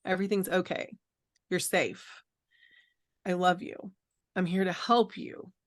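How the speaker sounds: soft, gentle reassurance to a frightened father; soothing. Retold or imitated. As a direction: daughter hugging her father, softly reassuring. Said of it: "I'm saying".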